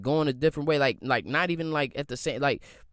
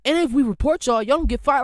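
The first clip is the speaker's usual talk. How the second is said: mock angry coworker; 5 semitones higher than usual. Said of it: "And he like".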